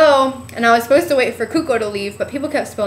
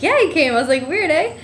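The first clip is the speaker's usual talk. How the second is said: high excited quote; 6 semitones higher than usual. Retold or imitated. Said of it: "And I was like".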